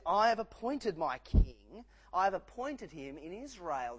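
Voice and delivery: proclaiming as God. Acted. Voicing God's declaration in sermon.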